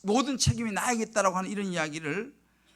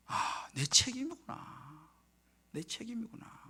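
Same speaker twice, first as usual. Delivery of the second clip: slow, hushed realization; retold quiet admission to himself; dawning self-blame; 4 semitones higher, 6 dB quieter, slower than usual. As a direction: let it sink in, fading softer. Retold moment of sober self-realization.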